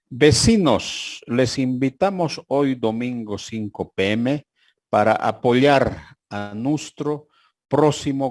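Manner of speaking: slow, announcing reading of the sign; reading a notice. Retold or imitated. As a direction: read it out slowly like a notice. Reads a badly written notice aloud. (lectura lenta de un aviso)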